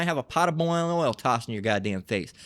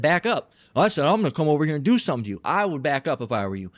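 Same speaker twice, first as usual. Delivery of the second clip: acted standoff; faster than usual. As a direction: trade heated warnings before a fight.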